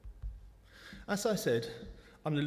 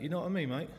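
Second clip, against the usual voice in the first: put-on South London accent; 3 semitones higher, faster than usual. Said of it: "Sometimes the South London accent pops out".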